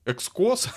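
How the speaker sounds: "Экскос" with a loud, high "о" in the last syllable; trying out a pronunciation. Shown as a demonstration. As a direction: push "Экскос?" up as the most doubtful guess. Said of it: "Как правильно читается этот ник".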